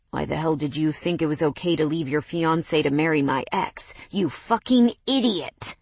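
challenging. Acted. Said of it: "Mason challenged".

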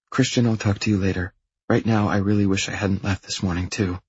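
lightly voiced young woman; a hint of a female character voice; reassuring girlfriend. Girlfriend signs off on phone.

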